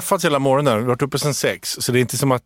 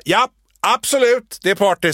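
placating Erik; 7 semitones higher than usual. Retold or imitated. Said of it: "säger han så här".

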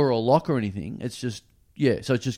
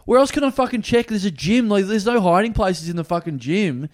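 mock exasperation; 6 semitones higher, 3 dB louder than usual. Exasperated retold retort.

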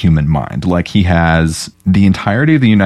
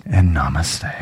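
whispered; 3 semitones lower, 6 dB quieter than usual. Pretend. Meditation joke, whispered.

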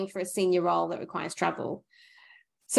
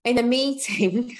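lightly put-on London accent, slowed down; London governor accent; slower than usual. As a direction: draw it out in a mock London accent. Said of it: "That's my best London governor accent".

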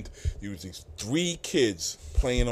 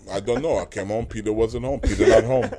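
put-on lightly done Jamaican accent, closing on a breathy "Peter not home"; a hint of Jamaican father brushing them off; father explaining Peter is out, mild Jamaican accent; 4 dB louder than usual. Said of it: "He had a thick Jamaican accent".

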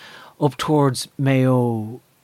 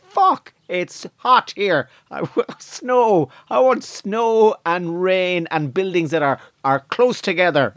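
higher, drawn-out mock complaint; complaining settler in Australia; 5 semitones higher than usual. White settler realising Australia is hot, high mock complaint. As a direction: whine about the heat as a homesick settler. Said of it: "white people went out to Australia".

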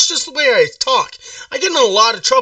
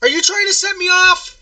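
pitched up, accusing; rising anger; 9 semitones higher than usual. Acted. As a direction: challenge her, getting heated. Caller accuses seller of laughing.

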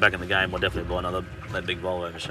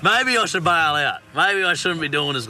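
worried; 8 semitones higher, 4 dB louder than usual. Retold or imitated. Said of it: "I'm like".

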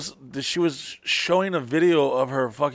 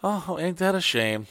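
fake sympathy; 5 semitones higher, slower than usual. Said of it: "I was fucking rejoicing".

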